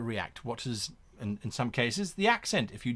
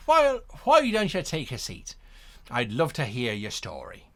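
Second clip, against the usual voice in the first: lightly put-on charmer's accent. Charismatic character inviting a newcomer to sit, lightly accented charm. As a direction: play a friendly, approachable charmer, lightly accented. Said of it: "let's say that they have this kind of accent".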